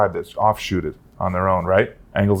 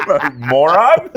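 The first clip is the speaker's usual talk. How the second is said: slow dumb brute; 6 semitones higher, 3 dB louder, much slower than usual. Pretend. Mocking how a big guy is expected to sound, slow dim brute voice. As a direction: drag it out, dim caveman voice.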